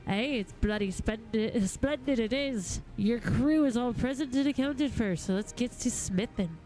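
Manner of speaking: lightly voiced rough-spoken smith, now hearty; rally the crew like a salty craftsman; a touch of blustering good cheer; cranky smith. Reads a grumpy smith's dialogue.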